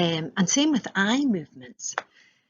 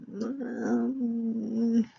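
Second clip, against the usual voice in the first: questioning hum; 5 semitones higher than usual. Shown as a demonstration. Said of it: "you've got that kind of".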